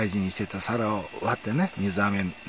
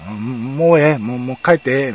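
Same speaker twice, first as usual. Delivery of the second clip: imitating teacher; 2 semitones higher, 8 dB louder than usual. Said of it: "みたいな感じでね".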